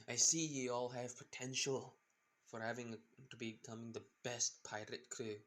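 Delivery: put-on pirate captain slipping into a Scottish accent; rough amateur Scottish accent; accidental Scottish. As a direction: attempt a pirate voice that drifts Scottish. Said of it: "I don't know why I'm going Scottish".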